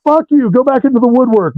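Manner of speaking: high mock brush-off; mock telling off. Telling the hallucinated musician to get lost, mock annoyed. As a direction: shoo the hallucination away, half laughing.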